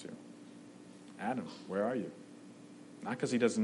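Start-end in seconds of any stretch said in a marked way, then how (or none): 1.2-2.1 a quiet, unhurried call, not searching; softer, a gentle knowing question; calm and collected. Retold or imitated. God calling calmly to Adam in the garden, quietly. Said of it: "We get a God who's calm, cool, and collected".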